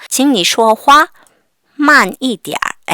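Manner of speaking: teacher drilling slowly; slow model reading. Shown as a demonstration. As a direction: spell out each syllable for learners. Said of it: "어떻게 표현하냐면".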